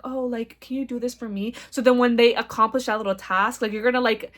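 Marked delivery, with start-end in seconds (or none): 0.0-1.5 soft, sweet, flirty ask; flirty request. Retold or imitated. Asking a man for a favour, flirty and soft. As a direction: coax him sweetly into a favour. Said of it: "flirty and seductive where you're like".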